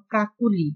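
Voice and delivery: কাকুলি with the middle vowel rounded to o. Shown as a demonstration. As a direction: say কাকুলি with a closed o-like middle sound. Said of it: "অ এর উচ্চারণ ও এর মতো হয়". (মাঝের অ ও-এর মতো করে "কাকুলি")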